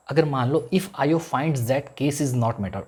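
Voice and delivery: slow, deliberate dictation pace. Shown as a demonstration. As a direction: spell it out slowly for students to write. Teacher dictating notes slowly.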